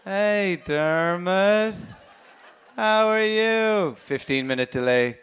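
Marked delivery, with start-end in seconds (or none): 0.1-3.9 imitated brother, slow and higher, lifting each ending; slow, rising endings. Brother on a delayed long-distance call, slow with rising endings. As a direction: draw it out and swing up at the end. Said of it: "He just started talking way slower".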